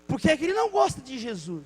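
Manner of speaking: a lightly voiced girl, puzzled and hurt; indignant little girl. Girl asking her mother about the neighbor, mild childlike voice. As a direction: ask mom like a hurt child. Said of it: "a menina ficou indignada".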